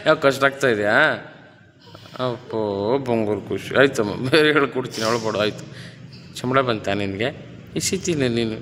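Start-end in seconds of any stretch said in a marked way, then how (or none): 2.2-5.6 low, tender consoling voice; soothing. Real, not acted. Coach consoling the crying child, soothingly.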